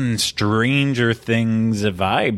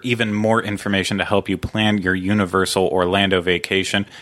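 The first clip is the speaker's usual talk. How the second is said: practised podcast intro read; sponsor read. Real, not acted. Host reads show credits and sponsors, announcer read.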